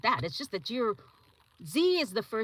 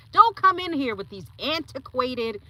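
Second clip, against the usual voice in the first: mock outraged students; 4 semitones higher, 6 dB louder than usual. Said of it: "They were like".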